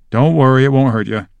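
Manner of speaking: mildly reassuring teacher voice; patient. Acted. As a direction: soothe a nervous pupil, lightly acted. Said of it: "said Hagrid patiently".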